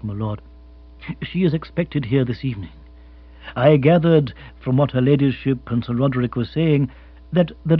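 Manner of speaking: unruffled, measured formality; Jeeves, formal butler. Acted. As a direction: report smoothly and deferentially.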